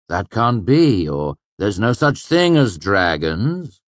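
mock disbelief. Kvothe suggests incredulous protests to Chronicler.

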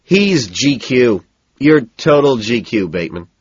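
boozy, drawn-out admiration; a little drunk. A narrator's reading. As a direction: drag out the compliment like someone slightly drunk. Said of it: "the speaker sounds a little drunk".

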